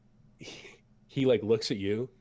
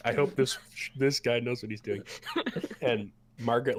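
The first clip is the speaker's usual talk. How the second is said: normal talking voice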